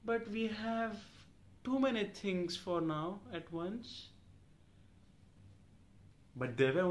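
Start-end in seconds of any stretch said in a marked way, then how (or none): 0.0-4.1 slow, higher-pitched mock apology; put-on apologetic rep voice, drawn out; mimicked customer support rep. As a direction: drag out the apology, imitating the rep. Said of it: "You know what she's telling me".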